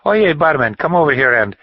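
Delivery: loud, high call across the bar; tipsy man shouting for the barman. Acted. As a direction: hail the barman from across the room. Calling the barman over.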